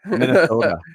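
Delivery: "Minnesota" in a lighter Minnesotan accent, not overdone. Shown as a demonstration. Co-host showing the right Minnesotan accent on "Minnesota". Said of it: "You're doing too much on it".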